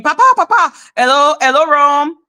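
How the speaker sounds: lightly imitated mother's yell, loud; mother screaming. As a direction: mock-scream like an overwrought mom.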